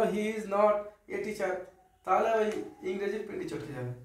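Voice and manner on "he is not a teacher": slow, every word pulled apart; broken apart. Shown as a demonstration. Teacher showing the clumsy separated way. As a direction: say "he is not a teacher" word by word with gaps. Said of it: "তুমি যদি ছেড়ে দিয়ে বলো".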